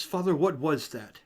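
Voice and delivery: sharp call. Acted. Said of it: "a sharp voice".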